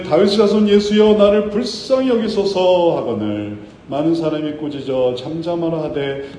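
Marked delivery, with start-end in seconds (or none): 0.0-3.0 raised, higher plea read aloud; crying out. A narrator's reading. Blind beggar calls to Jesus for mercy, crying out. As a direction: call out for mercy, louder and higher. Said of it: "소리질러 이르되".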